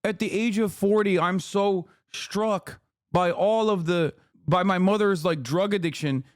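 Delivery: mock whining. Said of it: "he's like".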